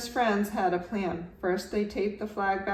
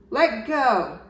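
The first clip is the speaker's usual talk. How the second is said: shouted demand; 4 semitones higher, 8 dB louder than usual. A narrator's reading. Tug of war over flag.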